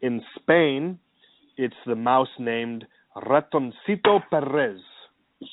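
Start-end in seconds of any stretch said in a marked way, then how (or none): 1.6-4.8 Ratoncito Perez with a trilled Spanish r; rolled r. Shown as a demonstration. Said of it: "like my rolled R's there?".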